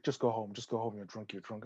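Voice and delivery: officer telling her to go home; dismissive officer. Retold or imitated. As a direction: wave the drunk girl away. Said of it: "she's like".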